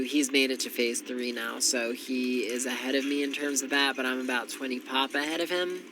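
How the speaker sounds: congested, stuffy-nosed voice; blocked nose. Real, not acted. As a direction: talk through a blocked nose. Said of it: "I'm so congested".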